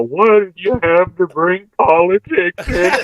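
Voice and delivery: lightly hammed-up mock complaint; complaining commenter. Co-host imagines the viewers' comments, lightly voiced mock complaint. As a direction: put on a mildly indignant internet commenter. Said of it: "I can just hear the comments now".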